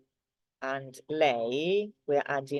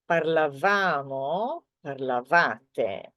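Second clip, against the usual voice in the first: parlavamo, parlavate, slowed with the stress on va; slower than usual. Shown as a demonstration. Teacher contrasting noi and voi stress for learners, slow. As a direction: lean slowly on the va of parlavamo and parlavate. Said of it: "the stress in the word is in a different position".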